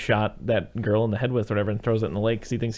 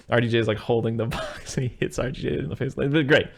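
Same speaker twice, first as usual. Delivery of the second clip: ordinary talk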